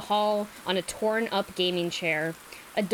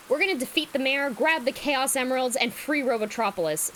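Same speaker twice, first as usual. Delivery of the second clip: passionate; 3 semitones higher than usual. Acted. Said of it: "Sonic says passionately".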